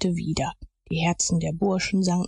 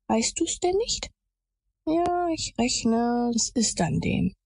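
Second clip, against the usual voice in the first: put-on boys in hushed exchange; 6 semitones higher, slower than usual. A narrator's reading. Boys whispering about their oath.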